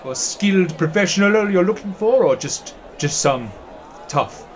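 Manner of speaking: a chatty townsman showing a stranger around; guide NPC. Acted.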